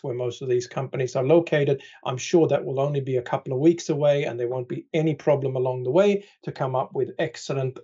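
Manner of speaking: deadpan mock confidence in politicians; dry, understated sarcasm; sarcastic. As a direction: say it straight-faced, meaning the opposite. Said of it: "I'm being sarcastic here".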